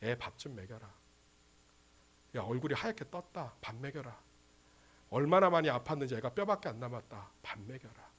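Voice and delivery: very soft, low, caring voice; hushed fatherly tenderness; warm, tender. Acted. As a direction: speak gently to worried parents. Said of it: "따뜻하게 얘기하십니다".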